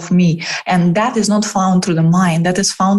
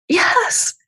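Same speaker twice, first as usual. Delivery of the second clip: whispered yes; 13 semitones higher than usual. Retold or imitated. Coach grants permission.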